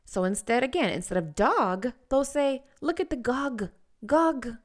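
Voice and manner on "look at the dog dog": put-on high child voice saying gog; child's mispronunciation. Shown as a demonstration. Speech therapist imitating a toddler for parents. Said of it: "if your child says gog".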